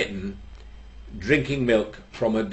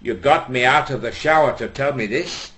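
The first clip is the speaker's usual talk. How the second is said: exasperated protest; 4 semitones higher, 5 dB louder than usual. Acted. Exasperated punchline.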